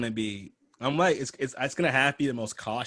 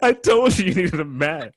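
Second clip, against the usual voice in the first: higher and louder mock voice; higher louder hammed-up delivery; hammed-up porn line; 6 semitones higher, 10 dB louder than usual. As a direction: overact the line like cheap porn. Repeating line louder, laughing.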